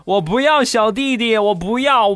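put-on high whiny child protest; crying little boy. Four-year-old son refusing a baby brother, high whiny protest. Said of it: "当时就哭了".

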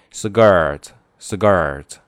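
'skirt' said as 'sgirt', hard g after the s; K sounded as g. Shown as a demonstration. Teacher demonstrating the sound change, 'skirt' pronounced 'sgirt'. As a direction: model 'skirt' with the k softened to g. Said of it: "那个K要读成g".

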